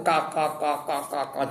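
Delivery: mock laughter. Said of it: "terbahak-bahak ketawa".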